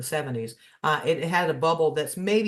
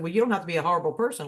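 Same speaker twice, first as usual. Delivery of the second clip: quick mock-sharp retort, pitched up; fast snapped comeback; 3 semitones higher, much faster than usual. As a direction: fire it back fast before hanging up. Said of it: "I said".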